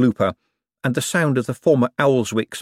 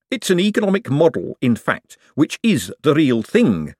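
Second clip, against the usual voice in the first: excited; 6 semitones higher, 3 dB louder than usual. Acted. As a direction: marvel at the power. Hubert marvels.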